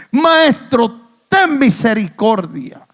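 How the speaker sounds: acted plea, calling out; crying out. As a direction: call out for mercy to the master. Re-enacts the lepers' cry. (clamando, súplica en voz alzada)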